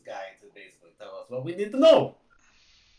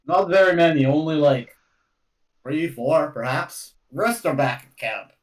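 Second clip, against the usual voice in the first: put-on pseudo Derek Sagan accent; 4 dB louder than usual. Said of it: "this accent is morphing into, like, a pseudo Derek Sagan accent".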